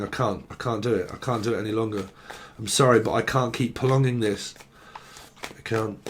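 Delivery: low, soft, giving-up voice, fading at the end; a hushed, defeated voice trailing away; quiet despair. Retold or imitated. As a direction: say it like someone with nothing left. Channeled despairing message, softly voiced.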